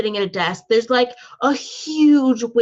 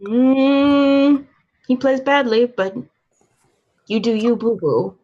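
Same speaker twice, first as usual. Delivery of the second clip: bad heavy Russian accent; 3 semitones higher than usual. The Russian werewolf sneers at the gambler in a heavy, hammed-up Russian accent. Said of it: "in my bad heavy Russian accent".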